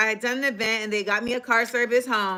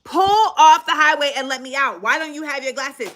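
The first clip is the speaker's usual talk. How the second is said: stern demand; 3 semitones higher, 3 dB louder than usual. Retold or imitated. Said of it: "I'm like".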